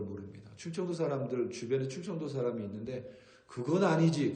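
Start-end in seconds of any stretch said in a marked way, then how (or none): 3.5-4.3 a louder, higher clipped "그건 아니지"; mock Chungcheong anger. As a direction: Chungcheong man, mildly hammed-up annoyance. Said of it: "그럼 진짜 화난 겁니다".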